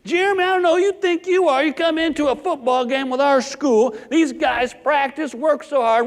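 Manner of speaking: a touch of a furious father lecturing; dad going off. Retold or imitated. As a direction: principal dad scolding his son for fighting. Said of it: "My dad starts going off on me".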